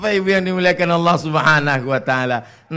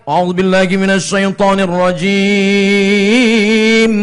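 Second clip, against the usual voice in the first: slow, melodic recitation, louder; Quran reciter; 4 dB louder, slower than usual. Retold or imitated. Imitating a qari opening the recitation, slow and melodic. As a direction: intone it like a qari. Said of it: "Makanya kalau ada qari".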